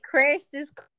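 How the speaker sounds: taken aback, voice lifted; incredulous echo. Retold or imitated. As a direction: repeat it back as a startled question. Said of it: "I said".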